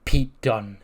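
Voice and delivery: lightly dazed, fixated reply. Acted. Former champ ignoring the question about the rap, out of it. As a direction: repeat it as if zoned out. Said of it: "just, just out of it".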